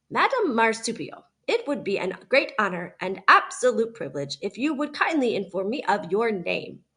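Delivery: mildly overpolite and carefully friendly; a stiff robot trying its best to sound friendly; friendliest voice. Acted. Robot addressing the opossum politely, understated overfriendly tone. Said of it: "spoke her next words in the friendliest voice she could muster".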